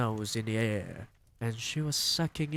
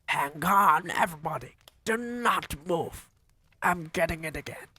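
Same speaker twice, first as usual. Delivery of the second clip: high, loud witch call; crying out; 7 semitones higher, 6 dB louder than usual. Acted. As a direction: call everyone to freeze.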